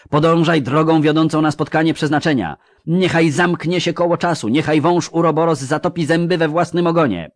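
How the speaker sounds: piercing, high incantatory shout; Nimue. A narrator's reading. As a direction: urge her onward in a sustained high, loud cry. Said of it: "krzyknęła przenikliwie Nimue".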